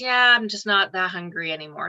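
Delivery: sort of passive, half-hearted, no push behind it. Imitating how a man who lost his love of food now talks, imitating a passive tone. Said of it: "sort of passive".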